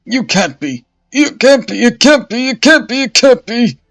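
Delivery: high, loud, repeated shrieks of denial; terrified disbelief. Acted. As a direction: scream it again and again in horror. Bishop sees Joan alive.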